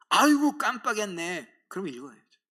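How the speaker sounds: believer admitting they forgot the Bible reading; caught forgetting. Retold or imitated.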